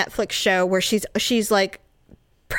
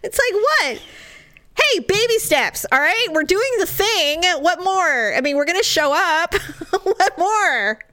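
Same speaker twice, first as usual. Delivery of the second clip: higher, laughing mock outrage; laughing indignation; 6 semitones higher than usual. Real, not acted. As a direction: protest with a laugh in the voice. Laughing defiance about baby steps.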